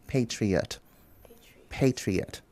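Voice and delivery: Patriot in three clear syllables, PAY-tree-ot; softly, Patriot in three parts. Shown as a demonstration. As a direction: spell out Patriot slowly, all three beats. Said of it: "said in three syllables".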